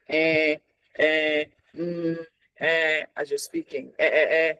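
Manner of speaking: drawn-out hesitant "eh" and "mm"; imitated level filler noises; filler sounds. Shown as a demonstration. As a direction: demo of stalling with fillers. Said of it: "you do a lot of um".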